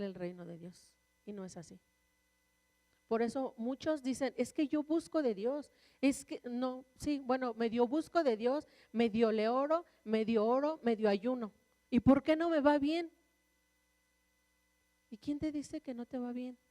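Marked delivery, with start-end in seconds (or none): 4.4-13.1 louder, imitated excuse-making; mock complaint. Half-hearted believers justifying themselves to the preacher, mock complaint.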